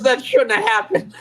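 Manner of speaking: shouted through laughter; half-laughing yell of disbelief; mock cry over a lost bet; imitating a laughing shout. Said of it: "he goes".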